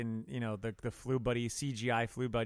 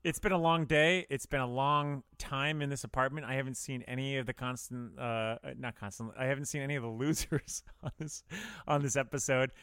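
tipsy. Real, not acted. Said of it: "if you're sitting there going, "Wow, he's slurring his words".

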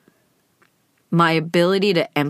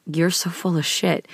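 scoffing; 3 dB quieter than usual. Retold or imitated. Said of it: "scoffed at me and was like".

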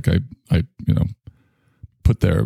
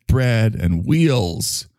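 slow reverent quote; 3 semitones higher, much slower than usual. Retold or imitated. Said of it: "He said".

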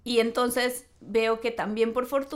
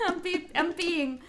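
laughing correction; 5 semitones higher, 4 dB quieter, slower than usual. Retold or imitated.

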